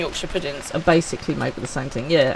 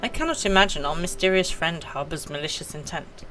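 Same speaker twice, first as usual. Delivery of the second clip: voiced game character; 3 semitones higher than usual. Streamer reading a game character's calm dialogue. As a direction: read it as a composed ancient.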